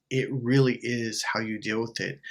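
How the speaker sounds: ordinary talk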